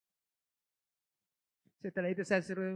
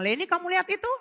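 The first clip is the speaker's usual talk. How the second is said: voice of God; 11 semitones higher, 8 dB louder than usual. Retold or imitated. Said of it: "Tuhan bilang".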